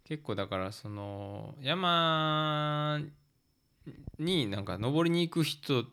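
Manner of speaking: normal talking voice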